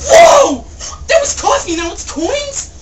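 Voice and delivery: high shrieking whoa with laughter; surprised laughing shout. Real, not acted. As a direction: shriek in startled delight.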